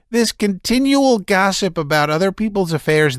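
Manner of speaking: high, strained, near hysterical; shouting Laevsky. A narrator's reading. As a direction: rant at the meddlers. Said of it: "shouted Laevsky".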